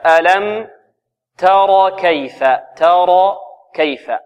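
slow "تر كيف" with light t, full dark r, light k; thin taa, heavy raa. Shown as a demonstration. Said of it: "نرقق التاء، ثم نفخم الراء". ("تر كيف" بترقيق التاء وتفخيم الراء وترقيق الكاف)

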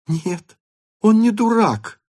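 earnestly defending him; offended. A narrator's reading. Natasha defends the suitor, offended. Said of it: "обиженно и серьёзно".

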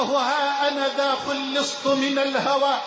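measured devotional recitation; poem recitation. Acted. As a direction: recite it as a humble prayer.

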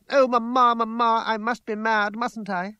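high wail to mother, starting loud; distraught plea. A narrator's reading. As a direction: appeal to Mamma in desperation. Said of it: "She fell to her knees at her mother's feet".

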